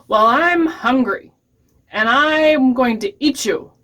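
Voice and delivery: lightly menacing storybook troll; hungry troll. Acted. Troll threatens the middle goat.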